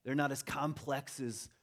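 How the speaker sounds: mocking molecules. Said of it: "that molecules start mocking".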